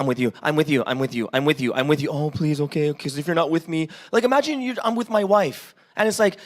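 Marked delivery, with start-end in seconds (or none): 0.0-2.1 low, droning mock comfort, over and over; mock reassurance. Mocking constant reassurance. 2.1-3.9 needy mock whine. Needy reply, mocking clinginess.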